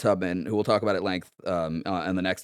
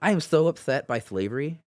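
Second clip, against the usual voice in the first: effete northern liberal voice; 3 semitones higher than usual. Pretend. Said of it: "that was my, um, effete, uh, northern liberal, uh, voice".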